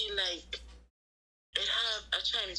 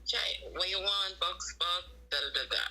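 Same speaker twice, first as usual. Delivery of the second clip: a hammed-up Chinese restaurant worker accent; mock Chinese accent; 3 semitones higher than usual. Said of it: "That was my Chinese impression".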